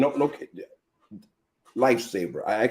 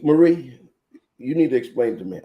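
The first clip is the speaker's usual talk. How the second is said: calling out sharply; 3 semitones higher, 5 dB louder than usual. Retold or imitated. Mother calling her daughter's name in anger. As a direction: snap the name out to stop her.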